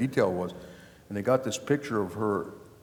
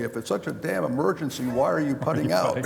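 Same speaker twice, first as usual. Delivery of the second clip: a retold yell pitched higher; mock yell; 5 semitones higher than usual. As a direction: shout it like the annoyed golfer. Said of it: "the guy yells at me".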